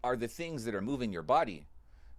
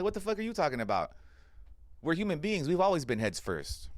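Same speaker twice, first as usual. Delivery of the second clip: heated retort; 5 semitones higher than usual. Retold or imitated.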